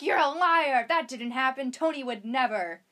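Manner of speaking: shouted accusation that fades to a slow insistence; mock outrage at bad news; mock angry denial. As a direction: play the heroine's outraged denial. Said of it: "she's like".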